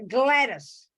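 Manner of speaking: Gladys in a broad Australian accent, held long and falling; Australian pronunciation. Shown as a demonstration. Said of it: "as we say in Australia".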